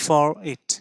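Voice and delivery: for it run together as "fo-rit"; linking r. Shown as a demonstration. Teacher showing students the linking r in for it. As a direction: carry the r of for into it. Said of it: "বলবো".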